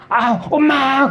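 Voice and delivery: high, drawn-out mock cry for mom; urgent cry. Preacher imitating a child urgently calling mom, urgent cry. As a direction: call out slowly and high like a child in a hurry. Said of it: "급하면".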